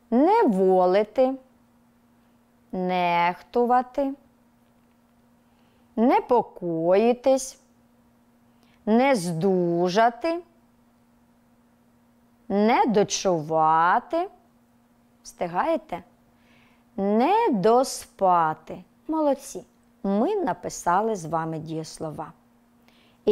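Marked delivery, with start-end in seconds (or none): 0.1-14.3 slow, word by word, with pauses between; dictation pace. Shown as a demonstration. Teacher dictating exception verbs to the class, slow. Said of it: "під диктовку зі мною працюйте". 17.0-18.8 slow, word by word, with pauses between; dictation pace. Shown as a demonstration. Teacher dictating exception verbs to the class, slow. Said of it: "під диктовку зі мною працюйте".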